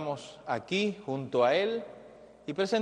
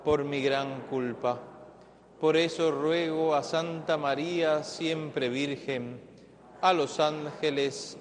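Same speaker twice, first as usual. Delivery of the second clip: recited prayer. Real, not acted. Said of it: "digamos todos juntos".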